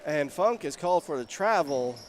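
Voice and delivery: measured call with small lifts on the shot; live play-by-play. Real, not acted. Announcer calls Burdick's shot rattling around, live play-by-play. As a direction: track the ball for listeners.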